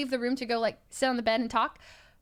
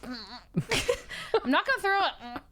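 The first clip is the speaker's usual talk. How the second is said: dragged out through laughter; slow laughing; 3 semitones higher, much slower than usual. Retold or imitated. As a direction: laugh while insisting slowly. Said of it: "And he's like".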